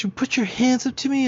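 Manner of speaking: high, loud outraged squeak; indignant Karen. Retold or imitated. Karen scolding him for blocking her hits, high loud outrage. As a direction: shriek it as if insulted he dared defend himself. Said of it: "She says".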